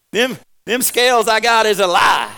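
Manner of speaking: high, loud laughing shout; loud, laughing protest against the scales; comic outburst. Real, not acted. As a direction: shout the complaint through a laugh. Joking complaint about scales.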